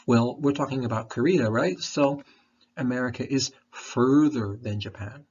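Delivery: talking around a candy; candy in the mouth while speaking; mouth full. Real, not acted. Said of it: "I'm sucking on some".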